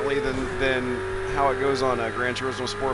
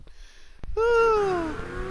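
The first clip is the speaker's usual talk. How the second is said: long sigh. Real, not acted. Winding down after laughing at clip.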